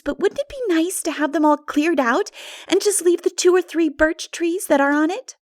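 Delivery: lightly voiced girl, a touch indignant; a hint of a cross young girl; Diana's voice. A narrator's reading.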